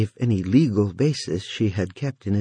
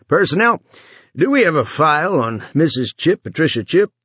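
calling out; 8 semitones higher, 3 dB louder than usual. A narrator's reading. Calling into the intercom.

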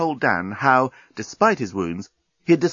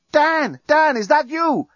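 high, drawn-out calling; urgent high-pitched shout; yelling; 4 dB louder, slower than usual. A narrator's reading. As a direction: yell for him from another cell. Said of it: "Lucy was yelling".

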